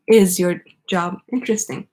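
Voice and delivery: IS put at the front and stressed; question with is first. Shown as a demonstration. Teacher showing how Is moves to the front. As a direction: lift Is as the question opens. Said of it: "is moves to the front".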